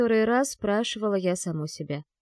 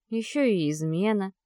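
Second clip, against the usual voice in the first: plain reading voice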